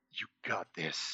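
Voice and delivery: very soft, slow, silent mouthing.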